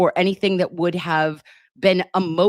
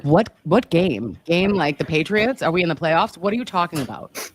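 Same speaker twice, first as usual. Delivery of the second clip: confused Karen. Retold or imitated. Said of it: "Karen's like".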